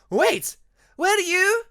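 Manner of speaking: high, loud startled outburst; shocked realization that breaks off; sudden alarm. Acted. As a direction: catch herself mid-thought. Ermine suddenly realizing, cut off.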